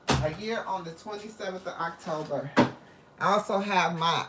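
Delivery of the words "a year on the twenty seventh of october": softer repeat. Real, not acted. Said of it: "It was a year on the twenty-seventh of October".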